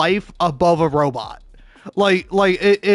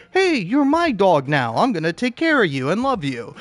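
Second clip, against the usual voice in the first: cooing to a dog; 4 semitones higher than usual. Pretend. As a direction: coo like adopting a stray puppy.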